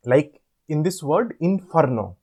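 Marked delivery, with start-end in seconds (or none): 1.4-2.2 "inferno" in three distinct beats; syllable by syllable. Shown as a demonstration. Teacher showing how we speak it, "inferno" in three beats. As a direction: say "inferno" as in, fer, no. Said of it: "we speak like that".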